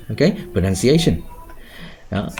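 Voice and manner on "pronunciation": quick pro-nun-ci-A-tion, falling after A; natural word stress. Shown as a demonstration. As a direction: say "pronunciation" fluently, stressing the A syllable. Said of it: "nó sẽ natural hơn".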